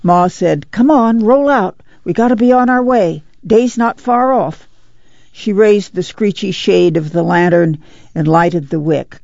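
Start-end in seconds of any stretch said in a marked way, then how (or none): 0.7-4.7 higher-pitched mother urging sleepers up; Ma rousing the camp. Acted. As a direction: get them moving with a lifted voice.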